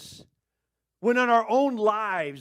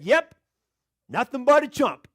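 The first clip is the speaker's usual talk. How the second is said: lightly voiced parrot, pitched up; a hint of a taunting parrot; talking parrot; 3 semitones higher, 4 dB louder than usual. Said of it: "the bird said".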